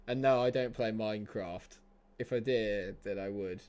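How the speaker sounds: ordinary talk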